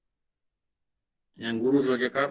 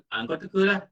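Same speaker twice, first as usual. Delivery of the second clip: mock dismissive wife; 5 semitones higher than usual. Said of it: "bukan dia kata".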